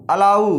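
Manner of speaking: अलाउ as "a-laau", the last syllable "laau" like cow; अलाउ stressed on a final "laau"; pronouncing allow. Shown as a demonstration. Teacher models अलाउ for the class. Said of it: "आउ आ रहा है".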